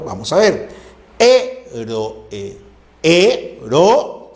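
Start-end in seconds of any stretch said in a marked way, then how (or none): 1.2-4.3 "Ero" broken into separate syllables; hiatus separation. Shown as a demonstration. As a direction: set the e apart in "Ero". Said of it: "se separa de la E".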